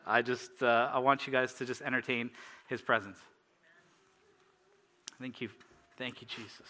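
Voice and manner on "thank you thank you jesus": soft, unhurried thanks to God; reverent prayer. Real, not acted. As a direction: gently lead the room into prayer. Leads closing prayer.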